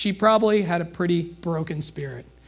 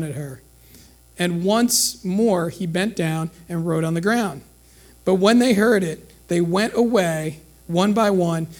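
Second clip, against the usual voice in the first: measured, even reading of the passage; unhurried Bible reading voice; scripture reading. Acted. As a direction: read the Gospel to the congregation. Reads the Gospel passage aloud.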